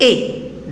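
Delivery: E said as a clear closed é, held briefly; model vowel E. Shown as a demonstration. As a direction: say E like é in beauté. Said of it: "Et on le prononce E".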